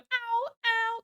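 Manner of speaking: high-pitched mimicked meows; cat meowing impression. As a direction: mimic a complaining kitty. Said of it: "she's going".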